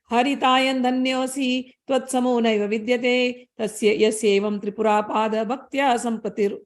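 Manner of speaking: rapid, rhythmic chanting of scripture; Sanskrit verse recitation. Acted. Teacher reciting the Sanskrit shloka to the listeners, fast chant. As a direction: rattle off the shloka in one flowing chant.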